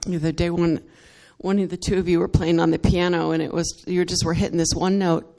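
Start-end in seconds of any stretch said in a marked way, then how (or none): none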